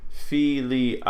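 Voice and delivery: "filii" slowly, each vowel its own syllable; drawn-out, syllable-by-syllable "filii"; separate vowels. Shown as a demonstration. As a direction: split the final vowels of "filii". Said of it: "I A is not a diphthong".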